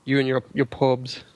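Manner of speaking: lightly put-on Irish accent; a touch of imitation Irish. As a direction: tease with a mock Irish accent. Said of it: "quite a good Irish accent there".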